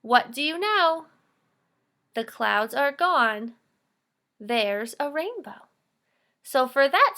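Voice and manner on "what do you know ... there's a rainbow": put-on slow, measured read-aloud for children; reading a poem aloud. Shown as a demonstration. Teacher reading a poem to young pupils, slow and clear. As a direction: read the lines out clearly to the class.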